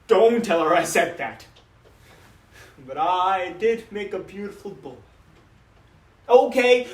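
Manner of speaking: lightly voiced doting papa reminiscing; a father fondly boasting about his son, then turning wistful; father's dramatic monologue; proud father.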